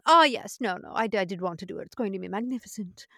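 imitating a grand star feigning humble delight; fake modest. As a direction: put on false modesty, hiding that you hate it. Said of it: "that sort of fake modest".

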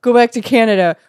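loud, high mock scolding; mock angry crew member. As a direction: jeer at the actor. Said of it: "They're like".

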